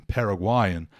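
Paraguayan with the stress on the GUA syllable. Shown as a demonstration. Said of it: "a sílaba tônica passa a ser gua". (Paraguayan com a tônica no GUA)

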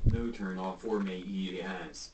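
put-on slow, slurred drunk voice. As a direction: drag the words like you're drunk. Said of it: "why would you say your lines like a drunk person".

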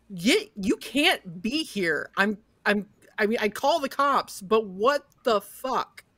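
stammering, flustered lawman; panicked sheriff. Acted. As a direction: sputter it out in disbelief.

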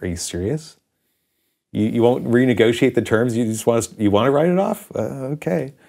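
retold baffled reaction, trailing into okay; incredulous. Incredulous reply to bank's write-off.

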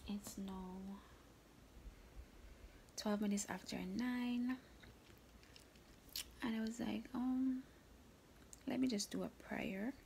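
hushed whisper, just woken up. Real, not acted. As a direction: keep it to a whisper. Whispers all through the vlog.

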